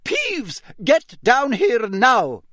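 high, loud, slow command; stern shout, leaning on every word; barked order. A narrator's reading. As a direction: bark it as a furious teacher. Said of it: "barked Professor McGonagall".

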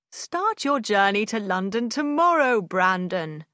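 loud hearty call; crying out. A narrator's reading. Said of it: "Sir John cried".

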